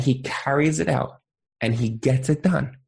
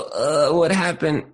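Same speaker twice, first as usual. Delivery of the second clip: sleepy and slow; slower than usual. Retold or imitated. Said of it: "you don't come down there and go".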